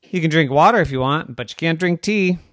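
playful rapid scolding; fast excited rant. Acted. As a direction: rattle it off like a smug kelp. Kelp's fast lecture.

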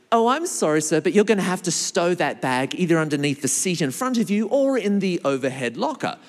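lightly voiced polite flight attendant; polite hostess. Flight attendant asks passenger to stow bag, lightly polite. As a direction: ask politely, a hint of hostess. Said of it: "the hostess comes along and says".

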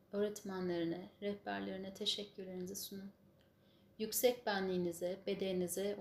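calm closing prayer voice; guided meditation. Acted.

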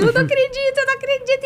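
very high mock tearful wail; imitated crying. Actress crying to her boyfriend over the casting news, high mock sobbing. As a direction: squeak it out as if overcome with tears. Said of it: "E eu chorando, chorando".

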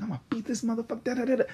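fast, high-pitched trash talk; mock raging. Podcaster imitating their own spicy rants, mock raging. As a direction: rattle off a hammed-up rant, high and fast. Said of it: "I'll be raging and talking shit".

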